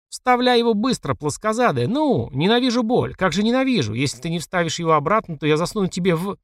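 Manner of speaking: angry yelling. Acted. Furious yelling in pain.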